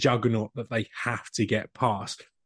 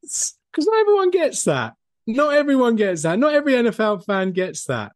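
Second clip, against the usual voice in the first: higher and louder, emphatic; excited; 10 semitones higher, 4 dB louder than usual. Real, not acted. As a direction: really sell it with excitement. Emphatic fan claim.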